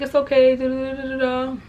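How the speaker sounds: high, lightly voiced fake agreement; fake sweet lie. Lying to the jailed boyfriend through the wall, fake sweet. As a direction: sound sweet while you're lying. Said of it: "I'm just lying to him".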